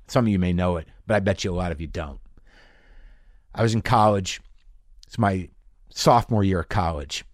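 ordinary talk

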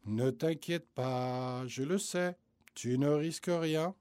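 put-on gently calm a scared child. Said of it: "lui répond d'une voix calme".

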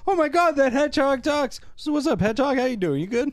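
high, mock thrilled chatter; hammed-up delight; excited people. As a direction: gush at the hedgehog like old pals. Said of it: "they're like".

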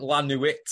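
"La Nuit" with the final t sounded; mispronounced French. Retold or imitated. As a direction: say "La Nuit" as "la noo-eet". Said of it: "She calls it".

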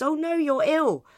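high oh no, then a whispered bye; high and mock-concerned, whispered goodbye; mock Cat voice. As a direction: fake concern, then wander off. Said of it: "Cat passes him and goes".

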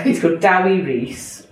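put-on name read in a Welsh accent. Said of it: "I've said it in a Welsh accent".

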